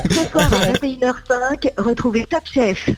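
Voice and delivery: voix off d'annonce télé posée; TV announcer voice. Shown as a demonstration. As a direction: annoncer le programme du soir. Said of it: "C'est celle qu'on entend à la fin des programmes annoncer le programme". (voix off d'annonce télé)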